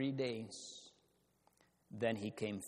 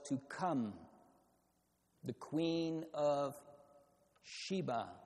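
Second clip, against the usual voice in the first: rising, louder preaching; building sermon; 3 semitones higher, 3 dB louder than usual. Acted. Preacher pressing the point on his congregation, building louder. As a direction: build it up phrase by phrase.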